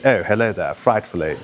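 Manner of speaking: lightly hammed-up posh British accent; old-film British accent, mildly put on. Shown as a demonstration. Showing students the accent from the films, put-on British. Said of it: "that British accent that people put on".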